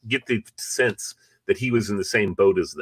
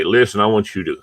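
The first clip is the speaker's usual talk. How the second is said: put-on Southern accent. Lobbyist leaning on a senator, light Southern accent. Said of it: "I'm doing a Southern accent".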